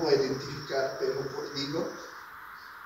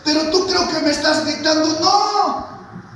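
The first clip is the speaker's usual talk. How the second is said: high, loud, quick retort rising to the end; acted loud retort; 12 semitones higher, 7 dB louder than usual. Eli answering young Samuel, acted loud retort. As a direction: answer loudly in a raised preacher's voice.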